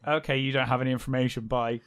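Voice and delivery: rapid, offhand brush-off; brisk mock dismissal. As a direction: rattle it off, imitating an abrupt exit. Acting out Caroline's abrupt dismissal.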